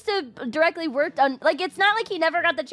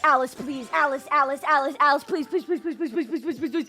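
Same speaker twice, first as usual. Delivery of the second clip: frantic begging; 4 semitones lower, faster than usual. Real, not acted. Streamer begging the game to bring Alice. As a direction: beg over and over under her breath.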